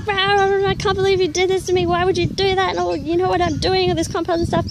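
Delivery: hammed-up outburst at a friend who tricked her; retold angry rant. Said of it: "I just went off my nut".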